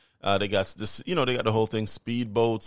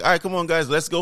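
excited; 6 semitones higher, 3 dB louder, faster than usual. Retold or imitated. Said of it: "everybody's all excited".

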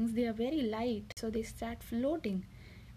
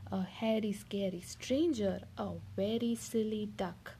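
lively picture-book reading voice; reading to children. Acted. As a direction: read it like a bedtime story for a little one. Mother reads picture book aloud.

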